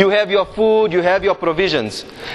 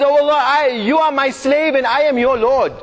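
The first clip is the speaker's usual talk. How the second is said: retold excited cry; 4 semitones higher than usual. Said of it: "That's how excited is he".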